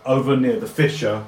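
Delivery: loud, animated scene setting; game master describing at full voice; game master narration. A narrator's reading. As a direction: paint the scene with energy.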